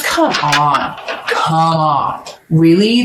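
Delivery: mock exasperated come on; sarcastic mock disbelief. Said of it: "saying it like that in that voice is because I'm mocking".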